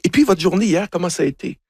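imitated friendly inquiry, starting high; friendly interest. Café worker asks the returning tourists about their day, friendly. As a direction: act out a barista keen to hear back.

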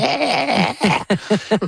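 high-pitched creature cackle; monster cackle. Shown as a demonstration. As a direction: cackle like a demon. Demonstrating demon and monster voices.

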